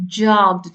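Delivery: teacher punching "jogged"; emphatic past form. Shown as a demonstration. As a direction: hit "jogged" hard to show the ending. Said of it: "The same applies for the word jog".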